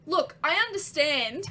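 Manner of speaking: loud Australian captain, rising at the end; Australian accent. Acted. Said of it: "Why do I keep going Australian with these accents?".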